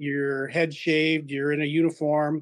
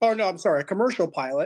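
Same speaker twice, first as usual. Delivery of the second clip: normal talking voice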